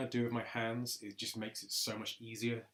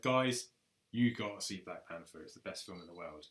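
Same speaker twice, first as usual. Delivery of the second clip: Panther voice impression; 5 semitones lower than usual. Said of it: "I do a Panther voice".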